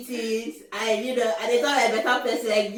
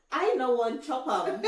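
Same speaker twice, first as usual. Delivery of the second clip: child's attempt at Pidgin; 5 dB quieter than usual. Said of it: "my daughter will say".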